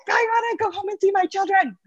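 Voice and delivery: put-on high, pleading childlike whine; whiny plea. Doctor stuck waiting, whining about getting home. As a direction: whine it like a worn-out kid begging. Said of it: "And I'm just like".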